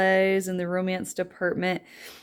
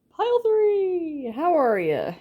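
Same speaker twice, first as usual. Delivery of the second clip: Southern accent; 12 semitones higher than usual. Real, not acted. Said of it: "Did I just go Southern there again?".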